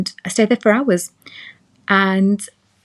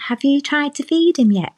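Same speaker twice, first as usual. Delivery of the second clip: nurse question; 8 semitones higher than usual. Retold or imitated. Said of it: "she goes".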